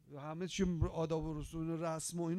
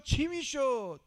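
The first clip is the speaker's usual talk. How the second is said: emphatic question; 5 semitones higher, 10 dB louder, much slower than usual. Real, not acted. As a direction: hit "چی" hard, then let it fall. Rhetorical question to congregation. («چی» با تأکید و بلند)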